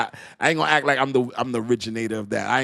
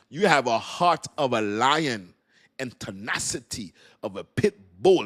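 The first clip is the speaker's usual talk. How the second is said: put-on measured Jamaican-accented pronouncement; 2 semitones higher than usual. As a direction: imitate a Jamaican reverend, stretching each phrase. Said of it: "it's so cool with Jamaican accent".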